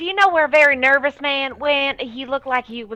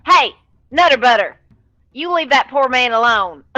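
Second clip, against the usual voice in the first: mild yell; 6 dB louder than usual. Acted. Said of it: "she's probably gonna yell".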